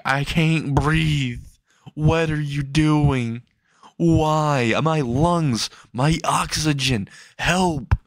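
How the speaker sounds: strained, high cry for help, drawn out; mock screaming. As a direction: plead for air in a mild mock yell. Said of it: "He's screaming out".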